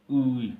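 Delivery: उई high and loud, oo gliding to ee; teacher's drawn-out model of उई; pronunciation demo. Shown as a demonstration. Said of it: "इसको उई उच्चारण किया जाता है".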